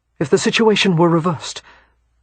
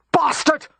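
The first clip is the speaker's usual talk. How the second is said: cracking cry; 11 semitones higher than usual. Acted. Final insult, voice cracks.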